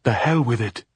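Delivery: loud, impatient dismissal; raging. A narrator's reading. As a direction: curse it off loudly. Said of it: "Pilar raged".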